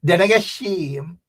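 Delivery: Guyanese saying in local twang; Guyanese Corentyne twang. Shown as a demonstration. Showing viewers the saying, Guyanese twang. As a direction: put on a Corentyne country twang. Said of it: "as we would say in Guyanese quarantine twang".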